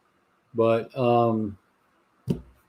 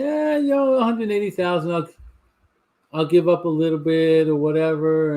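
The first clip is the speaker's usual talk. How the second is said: imitating a shrugging player; 2 semitones higher than usual. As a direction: toss it off like a rich athlete who doesn't care. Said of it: "he might say".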